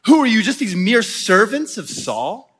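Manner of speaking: retold taunt with punched questions. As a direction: imitate an enemy belittling them. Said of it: "he's taunting them and just saying".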